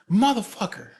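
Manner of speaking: loud, high mimicked curse; losing his mind. Father swatting flies on himself, losing his mind. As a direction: burst out cursing like a man plagued by flies. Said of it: "he's losing his fucking mind".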